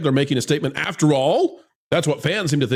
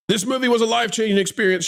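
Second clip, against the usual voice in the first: rushed mock reading; 4 semitones higher, faster than usual. Shown as a demonstration. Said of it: "Yada, yada, yada".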